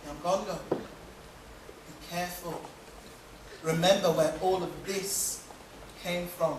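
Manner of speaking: hushed and slow, near a whisper on careful; low quiet warning. Acted. Wife quietly warns her forgetful husband, hushed and low.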